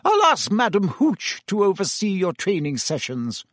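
a strict professor laying down the law; stern professor. A narrator's reading. McGonagall voiced.

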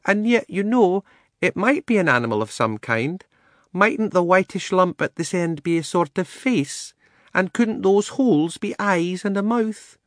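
high-pitched, measured lady elephant. A narrator's reading. She-elephant reasoning with the animals, high and deliberate. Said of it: "the she-elephant".

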